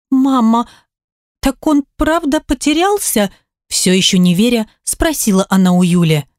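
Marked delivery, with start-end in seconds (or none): 0.1-3.3 put-on higher, small child pleading to her mother; higher child's voice, hurt and small; little girl's voice. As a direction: play a guilty little girl blaming herself. Daughter asks mother.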